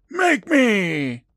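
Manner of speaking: high, loud defiant shout; yelled taunt. Retold or imitated. Steve taunting the trick-or-treater girl, high and loud. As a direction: dare her, yelling. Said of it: "And he yells".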